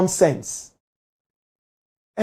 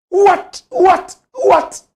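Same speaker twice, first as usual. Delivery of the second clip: very high, repeated disbelief; can't believe it; incredulous what; 11 semitones higher, 4 dB louder, much slower than usual. Real, not acted. Commentator reacting in disbelief to her claim.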